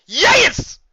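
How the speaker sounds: very high, loud squeal of joy; excited yes. Acted. Narrator cheering High School Musical, high excited squeal. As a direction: squeal it like a fan.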